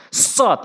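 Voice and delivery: সৎ as heavy Arabic emphatic s; forceful sad. Shown as a demonstration. Teacher shows learners the letter, forceful heavy s in সৎ. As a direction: push সৎ out with force, tongue tip at the teeth. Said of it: "অর্থাৎ শক্তি দিয়ে".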